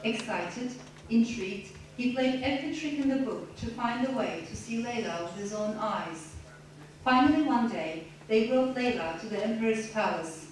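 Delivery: measured, expressive reading of a novel passage; story reading. Acted. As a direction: read it aloud like a storyteller to an audience. Author reads novel excerpt aloud.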